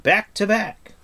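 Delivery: high, loud battle command; shouted. Acted. Bard orders defenders together, shouting. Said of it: "shouted the bard".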